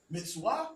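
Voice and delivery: "mitzvah" as mits-WAH; ancient Hebrew pronunciation. Shown as a demonstration. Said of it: "manner in which it would have been pronounced".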